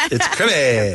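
slow mocking crimmy, last syllable stretched; creamy mispronounced crimmy. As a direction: imitate the ad's drawled crimmy. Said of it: "it was a creamy".

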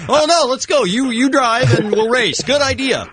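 mock eager racer. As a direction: act out jumping at a race. Acting out a tempted driver.

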